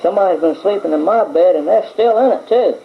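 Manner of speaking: put-on Baby Bear pipes up high and a bit teary; crying baby bear. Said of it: "crying up a storm".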